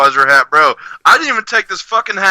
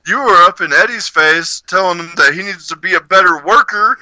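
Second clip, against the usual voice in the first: boss quote; 5 semitones higher than usual. Retold or imitated. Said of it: "and he was like".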